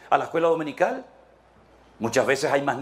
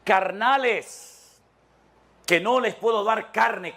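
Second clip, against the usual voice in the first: put-on higher, stretched-out scolding of children; Paul scolding; 5 semitones higher than usual. Paul scolding the Corinthians like children. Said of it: "que les dice".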